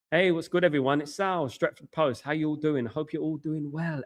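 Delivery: a self-conscious try at a low broadcaster voice; forced low voice. Shown as a demonstration. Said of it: "trying forcefully speaking low".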